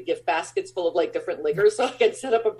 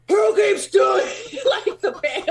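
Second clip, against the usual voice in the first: high, loud, slow furious yell; mock a furious costar's yell; imitating livid shout; 14 semitones higher, 6 dB louder, slower than usual. Maloney yelling about the vegetable cans, imitated high loud shout. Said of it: "like, livid".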